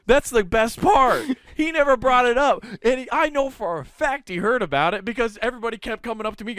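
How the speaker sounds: high, loud laughing telling; can barely get it out for laughing; real giggling delivery. Real, not acted.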